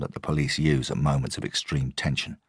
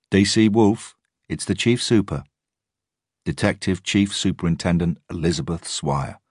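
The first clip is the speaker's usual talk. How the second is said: senior officer; 4 semitones higher than usual. A narrator's reading. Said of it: "And then a voice I knew".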